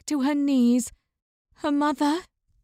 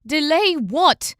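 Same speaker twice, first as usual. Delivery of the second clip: louder, slow question; voice raised; 3 semitones higher, 5 dB louder, slower than usual. Acted. Una demanding answers from her father, raised voice. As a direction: press him, voice raised. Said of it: "her voice raised".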